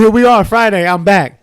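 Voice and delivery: a bright, loud burst of arrival; mock triumphant comeback; excited return. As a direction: announce you're back like magic. Back from time traveling the week.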